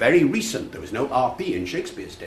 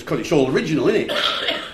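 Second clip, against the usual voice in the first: higher Cockney impression; inner-city London teen; 6 semitones higher than usual. Lad explains why the play is great, imitated Cockney. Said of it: "between the Cockney accent".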